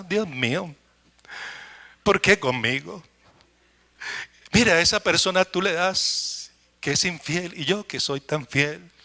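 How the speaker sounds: a whining complaint said under the breath; complaining to God. Retold or imitated.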